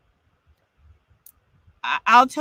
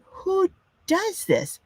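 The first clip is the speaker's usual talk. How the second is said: much higher and slow, stretched out in indignation; outraged disbelief; 11 semitones higher, much slower than usual. Retold or imitated. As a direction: drag it out like you can't believe it. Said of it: "I was just enraged".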